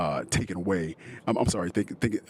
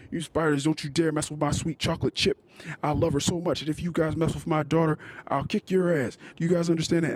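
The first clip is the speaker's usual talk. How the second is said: much higher, hammed-up warning to spiders; mock tough dad; 10 semitones higher than usual. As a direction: scold the spiders to amuse a child. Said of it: "how I used to handle it".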